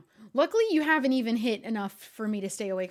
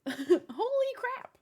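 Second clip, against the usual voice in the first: higher, slow, drawn-out astonishment; stunned; 12 semitones higher, much slower than usual. Real, not acted. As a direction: stretch it out in awe. Reacting to gift.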